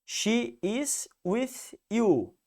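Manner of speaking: very slow, careful statement; slow, deliberate English example; slow English demo. Shown as a demonstration. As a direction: spell it out slowly for the class. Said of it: "como eu coloquei na primeira frase".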